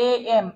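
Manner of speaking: এ এম split into vowel "e" plus "em"; demonstrated pronunciation. Shown as a demonstration. Teacher showing M begins with a vowel, split এ এম. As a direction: break the letter M into এ এম. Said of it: "এরকম উচ্চারণটা".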